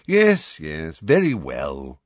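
slow, weary dismissive; impatient. A narrator's reading. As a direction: brush it off impatiently. Phineas impatient leaving.

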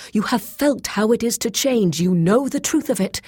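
high, impassioned, building urgency; eager. A narrator's reading. Boyce luring Grey Alis to change and hunt, eager. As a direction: entice her with mounting fervour. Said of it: "he said eagerly".

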